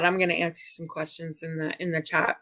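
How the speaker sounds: speaking round a swollen tongue; slightly thick, lisping speech. Real, not acted. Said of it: "I bit my tongue".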